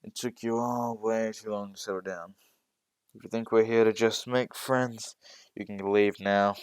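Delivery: tired teacher scolding new students, stern. Acted. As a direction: lay down the law, weary and strict. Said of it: "looking very drab and very tired".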